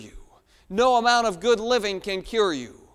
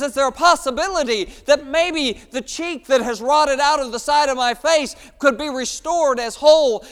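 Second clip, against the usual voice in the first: loud, higher pleading of a second leper; desperate pleading; 6 semitones higher, 8 dB louder than usual. Acted. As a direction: cry out for healing. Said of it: "another one says".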